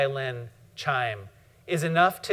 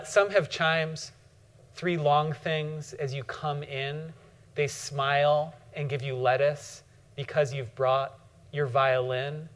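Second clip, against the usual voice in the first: poem reading; slower than usual. Acted. Reads Niedecker poem aloud.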